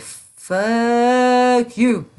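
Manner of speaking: loud, high snapped retort; retold angry retort. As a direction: fling it back at them hard. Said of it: "I was like".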